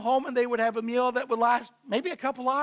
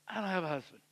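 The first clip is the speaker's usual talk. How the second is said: much softer, the front dropping away; facade breaks; 5 semitones lower, 10 dB quieter, faster than usual. Acted. Woman admitting the truth to Jesus, quiet and subdued. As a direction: let the defiance collapse into a quiet admission. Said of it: "the facade breaks".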